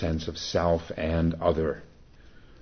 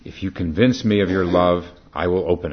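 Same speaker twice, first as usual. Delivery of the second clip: louder, firm demand to a suitor; firm condition; 7 dB louder, faster than usual. Acted. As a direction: lay down the condition firmly. Jamila states her condition.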